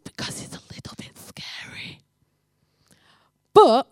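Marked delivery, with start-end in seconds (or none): 0.0-2.0 mock-scared whisper. Warning not to disturb sleeping Jenny, in a mock-fearful whisper. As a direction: confide it as if she might hear.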